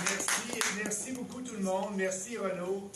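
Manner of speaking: high, loud warm thanks to the crowd; loud greeting. Real, not acted. Speaker arriving on stage, thanking the crowd loudly. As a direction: call out thanks over the applause.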